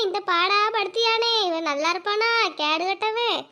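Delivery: low, soft bitter cursing; bitter low curse. Acted. Wife curses her husband after the beating, low and bitter. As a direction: mutter curses under the breath.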